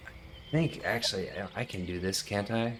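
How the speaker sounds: whispered aside. Real, not acted. The player whispers while checking his spell list. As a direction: mutter it to yourself.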